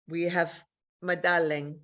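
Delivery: put-on gentle Italian-accented doctor. Oncologist breaking news to her patient, light Italian accent. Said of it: "I had to do an Italian accent".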